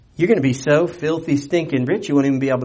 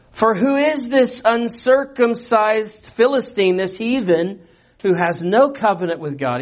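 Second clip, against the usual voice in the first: disbelieving preacher reading Scripture; incredulous; 7 semitones higher than usual. Shown as a demonstration. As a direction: read it as if he can't believe the question. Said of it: "I don't know if you heard my emphasis".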